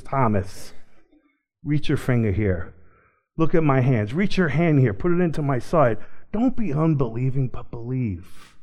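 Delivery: soft, low, patient appeal; lightly acted, quiet reassurance fading at the end; gentle invitation. Jesus inviting doubting Thomas to touch, gentle invitation.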